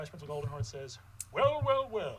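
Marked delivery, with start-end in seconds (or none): 1.3-2.2 gloating, rising well well well; sinister villain. Acted. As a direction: savor catching them red-handed. Vice principal confronts troublemakers.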